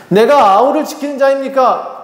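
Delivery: acted talking back; defiant back-talk. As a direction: pose it as an insolent challenge. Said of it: "대들고 있지는 않나요".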